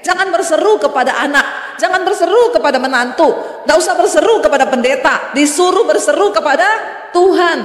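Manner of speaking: building to a shout. Acted. Preacher builds a teasing list.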